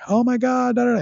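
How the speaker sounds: high, bright-pitched gasp of delight; lively excited gush. Shown as a demonstration. Coach showing a client how to react. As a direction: gush like the read thrilled you. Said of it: "less of a monotone voice".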